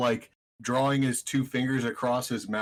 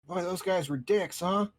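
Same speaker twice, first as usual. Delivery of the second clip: pixie; 6 semitones higher than usual. Acted. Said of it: "a little tiny voice".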